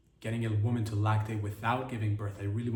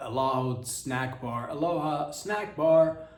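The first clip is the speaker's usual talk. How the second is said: slow, drawn-out mock yell, building louder; half-hearted shout, louder on the repeat; imitated yell; 4 dB louder, slower than usual. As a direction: draw out each word like a mangled battle cry. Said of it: "pop up and just yell out".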